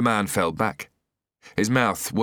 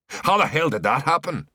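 shocked outburst; 10 semitones higher, 3 dB louder than usual. A narrator's reading. Shocked gang members discover informer.

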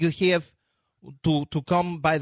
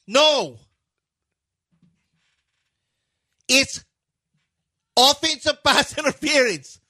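put-on high-pitched, indignant Russian-accented rant; hammed-up Slavic accent, punching each protest; Darko; 8 semitones higher, 3 dB louder than usual. Coach complaining about pass interference, high mock Russian accent. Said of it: "Your Darko impression is".

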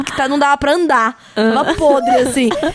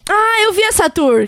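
pleased recognition; 6 semitones higher than usual. Real, not acted. Sudden recognition of the video.

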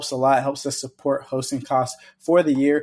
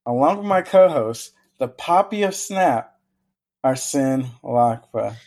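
announcer intro redo; slower than usual. Acted. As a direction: announce him like a ring announcer. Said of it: "we're running it back".

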